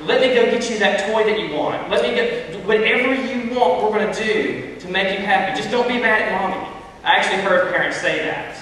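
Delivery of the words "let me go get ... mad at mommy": a bit higher, pleading parent voice; caving parent. Retold or imitated. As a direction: plead and appease like a giving-in mom. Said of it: "they'd say".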